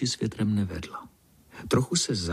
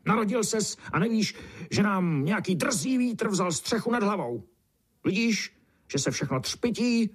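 put-on much higher, condescending old-beetle voice; grumpy beetle lecturing; 7 semitones higher than usual. A narrator's reading. Old beetle lecturing the newborn beetle, high and condescending. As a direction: preach gloomily like a know-it-all old beetle.

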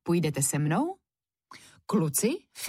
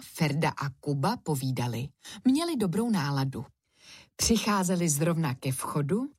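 plain reading voice

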